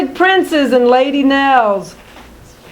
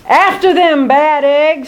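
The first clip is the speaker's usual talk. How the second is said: snarl; 2 semitones higher than usual. Acted. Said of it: "snarls Odious".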